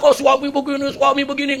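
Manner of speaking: high monotone nagging, words repeated; nagging wife. Acted. Wife grumbles from inside the dry well, mock nagging. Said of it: "Ngomel dia, saudara".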